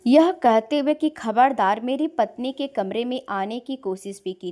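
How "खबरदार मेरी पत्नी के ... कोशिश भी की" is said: loud, threatening quote; loud retold threat; retold angry warning. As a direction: imitate a brother's sharp warning. Brother's threat, quoted by sisters.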